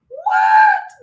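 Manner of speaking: very high, loud What?; shocked shout. Real, not acted. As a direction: yelp out a stunned What?. Shocked reaction to Mexican remark.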